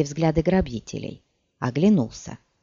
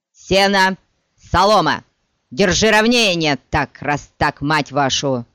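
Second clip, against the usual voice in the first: loud barked drill calls; drill shout; 4 dB louder than usual. Acted. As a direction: yell the commands, losing patience.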